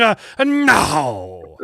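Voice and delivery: drawn-out mock Japanese accent. Finishing the dating ad, mock Japanese accent. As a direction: end the ad in a hammed-up Japanese accent. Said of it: "it's gotta be Japanese".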